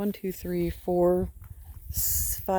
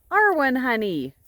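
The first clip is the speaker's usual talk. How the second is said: high, louder coax up the hill; coaxing call; 9 semitones higher, 3 dB louder than usual. Real, not acted. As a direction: call her down sweetly but firmly. Calling a sheep down.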